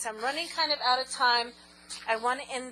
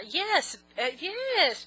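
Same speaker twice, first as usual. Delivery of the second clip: old-time bandleader voice; 5 semitones higher, 3 dB louder than usual. Pretend. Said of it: "now I'm talking like".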